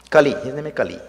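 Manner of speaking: Kali ending in an ee sound, like Hari. Shown as a demonstration. Teacher correcting for the Sanskrit student, Kali ending in ee. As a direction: say Kali loudly, rhyming it with Hari. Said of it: "Like Hari, ending in E".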